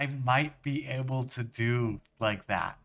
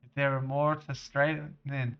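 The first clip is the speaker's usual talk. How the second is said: hearty generic Scottish lad-speak; terrible Scottish accent. Acted. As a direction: put on a bad Scottish accent. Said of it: "accent for this random character".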